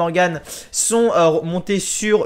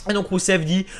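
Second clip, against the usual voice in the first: normal talking voice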